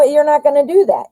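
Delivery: insist, raising the voice on "you're not gonna do that"; emphatic. Real, not acted. Firm advice to the viewer.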